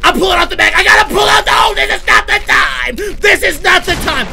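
high, loud screaming under attack; panicked yelling. Real, not acted. Player battles box demon and must reload, panicked yelling. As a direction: shout in escalating panic.

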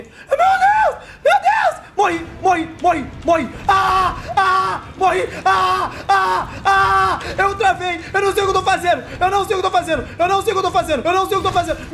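high frantic yelling; panicked screaming. Real, not acted. Morrendo no jogo, em pânico. (gritando em pânico, agudo)

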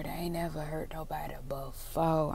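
soft whispered excuse; whispering. Real, not acted. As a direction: whisper it with a sly grin. A playful justification.

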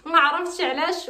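high, giggly excitement; giddy joy. Real, not acted. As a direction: bubble over with real joy. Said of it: "شادني النشاط وشادني واحد الفرحه". (فرحانة ونشيطة)

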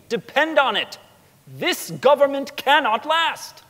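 a hint of a young Lincoln warning the crowd, slowing on the big phrases; Abraham Lincoln's oration. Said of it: "alluded to Lovejoy's murder in a speech".

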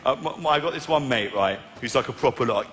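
ordinary talk, nothing marked

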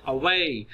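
"away" with a slight schwa, then stressed "way"; barely touch the A, stress "way" in "away". Shown as a demonstration. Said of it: "अब way पे stress है". ("away" में way पर ज़ोर, अ हल्का सा)

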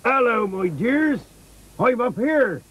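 high, hearty sailor's hail; calling back. Acted. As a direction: call down to the children from up on deck. Sailor answers children from above.

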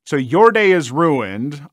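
mock cry. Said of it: "I mock cry".

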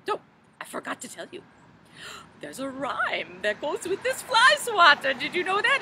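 put-on fussy, fluttery old storybook lady, gently theatrical; Mother Goose voice. Children's librarian as Mother Goose, fluttery storybook voice. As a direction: play a dotty nursery-rhyme granny for children.

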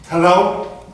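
shouting hello. Acted. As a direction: yell at the hung-up caller. Caller hung up, calling out.

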